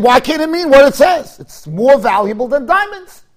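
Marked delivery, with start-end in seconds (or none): 1.4-3.2 slow reading. Shown as a demonstration. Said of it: "Read it like the pasuk".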